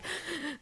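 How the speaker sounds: rapid, high, quiet panicked panting; manic gasping. Retold or imitated. Mom mimicking her five manic years, frantic gasps. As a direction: imitate a frazzled, manic gasp. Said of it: "like, manic mom".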